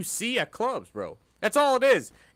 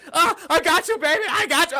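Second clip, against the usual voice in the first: much higher, loud playful "I got you"; mock comforting coo; 12 semitones higher, 6 dB louder than usual. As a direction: coo it up high like teasing a clumsy girl. Mocking her clumsy reassurance.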